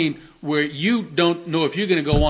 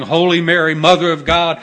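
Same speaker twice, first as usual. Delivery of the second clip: loud, urgent prayer of a wounded soldier; dying soldier praying; 7 dB louder than usual. Retold or imitated. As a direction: call the prayer out loud, pleading. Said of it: "The Catholics would be saying".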